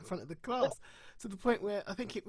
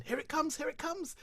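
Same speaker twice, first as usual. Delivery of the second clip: gleeful anticipation; 9 semitones higher than usual. Retold or imitated. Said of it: "the people in my head are going".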